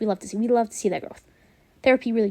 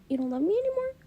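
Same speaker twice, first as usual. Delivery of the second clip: imitating a higher, softly tearful question; mock verge-of-tears voice, rising high; near tears; 11 semitones higher, 3 dB quieter than usual. Retelling his heartbroken question to viewers, near tears. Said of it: "sounded like he was about to break down crying".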